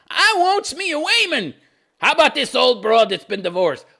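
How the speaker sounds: high dim-witted man voice; dopey prince voice. Retold or imitated. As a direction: play the dumb prince.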